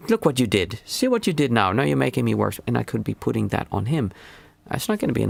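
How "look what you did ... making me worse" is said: put-on scolding a child. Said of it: "reacted with me going in".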